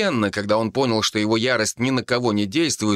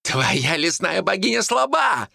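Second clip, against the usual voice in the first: higher, slow furious shout; 11 semitones higher than usual. A narrator's reading. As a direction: yell the insult at her. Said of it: "прокричал Тасник".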